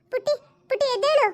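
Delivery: calling her daughter through tears; a mother's voice near crying; choked-up call to a waking child; tearful mother. Acted. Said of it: "ಅಮ್ಮ, ನೀನ್ ಯಾಕೆ ಅಳ್ತಿದ್ಯಾ?".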